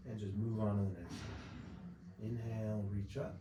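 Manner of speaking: calm, unhurried relaxation-exercise voice; guided body scan. Acted. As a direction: guide them gently through each breath. Leads breathing body scan.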